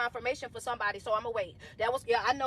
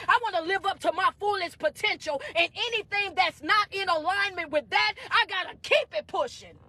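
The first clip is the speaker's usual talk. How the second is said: raised, emphatic preacher delivery; motivational preaching; 7 semitones higher, 5 dB louder than usual. Real, not acted. Coach urging followers to keep pushing, motivational preaching. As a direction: preach it with drive and conviction.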